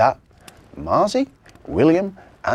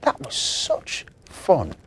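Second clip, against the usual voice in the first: excited cry; 7 semitones higher, slower than usual. Acted. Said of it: "cried William".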